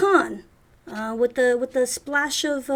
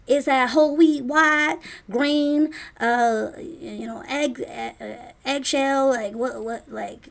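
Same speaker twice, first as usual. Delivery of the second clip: lightly voiced brisk diner lady, a bit louder; chatty waitress; 3 semitones higher, 4 dB louder than usual. Anna quizzing the customer about bread types, brisk. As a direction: rattle off the options eagerly.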